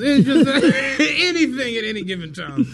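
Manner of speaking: laughing nervously mid-sentence; uneasy giggle through the words. Real, not acted. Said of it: "That's a nervous laugh".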